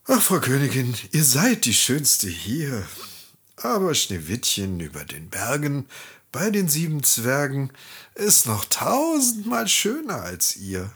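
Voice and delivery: a lightly voiced magic mirror, matter-of-fact; an everyday mirror answer with little voicing. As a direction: tell the queen the truth plainly as always. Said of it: "Der Spiegel sprach wie gewohnt".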